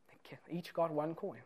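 hushed aside, unvoiced; whispered aside to the congregation. Real, not acted. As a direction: drop to a whisper.

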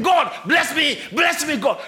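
imitating a Christian crying out for blessings; a hammed-up plea, loud; mock screaming. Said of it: "you are screaming".

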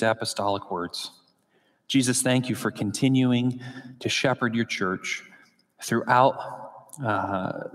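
measured, subdued prayer with pauses; pastoral prayer. Real, not acted. Pastor praying to the Father before the sermon, subdued prayer.

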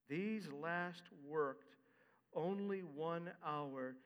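1 grumbling workers. Acted. Reading the workers' complaint.

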